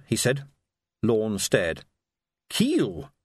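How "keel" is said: startled high gasp of a name; stunned. A narrator's reading. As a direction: blurt it out in shock. Shocked recognition of Keel.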